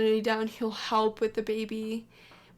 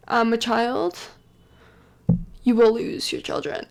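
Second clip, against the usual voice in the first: louder, stern warning from a priest; 5 dB louder than usual. Retold or imitated. Priest warns a mother she may lose her children, sternly. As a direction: lay down the law like a church official. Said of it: "Father Warren shows up and says".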